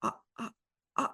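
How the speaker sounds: stunned stammer. Retold or imitated. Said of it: "I was so stunned".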